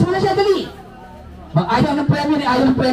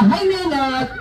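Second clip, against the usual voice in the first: cheerful shout; 3 semitones higher, much slower than usual. Shown as a demonstration. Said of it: "sabihin niyo nga". (masayang sigaw)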